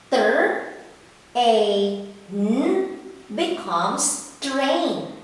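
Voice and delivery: slow sounding out, then "train" said whole; blending sounds. Shown as a demonstration. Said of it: "Now let's try to read this one".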